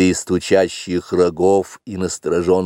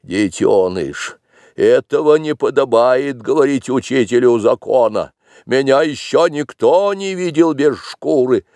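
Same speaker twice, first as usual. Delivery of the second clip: stern teacher; 5 semitones higher, 3 dB louder than usual. Acted. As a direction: scold the cub sternly. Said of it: "сказал строго".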